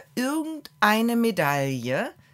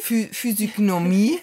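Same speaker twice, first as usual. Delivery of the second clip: laughing; 5 dB louder than usual. Real, not acted. Laughing at a word mix-up.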